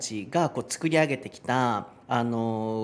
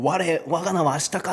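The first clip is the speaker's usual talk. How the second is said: mock samurai; 5 semitones higher, faster than usual. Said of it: "って言ってるような".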